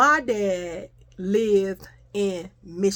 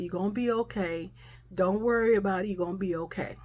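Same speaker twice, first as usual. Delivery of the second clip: imitated reassurance; 5 dB quieter than usual. Mother reassures crying child.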